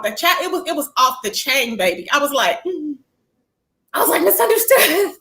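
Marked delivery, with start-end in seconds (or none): 3.9-5.2 laughing. Real, not acted.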